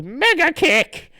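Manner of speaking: high, loud, drawn-out move call; cartoon fighter's slow yell; attack cry. Hero launches a kick, shouting it theatrically. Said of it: "And then he goes".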